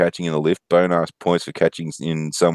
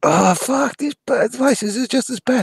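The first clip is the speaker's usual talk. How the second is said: mimicking Luke. Offsider complains a third time.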